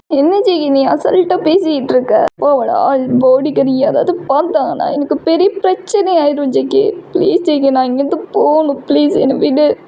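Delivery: a touch of panic, begging to leave; frightened girlfriend. Acted. Girl pleading, frightened. (பயத்துடன் கெஞ்சும் காதலி)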